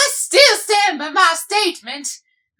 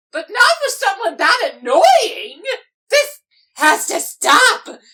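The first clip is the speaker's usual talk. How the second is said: outraged cry. Acted. Outraged protest.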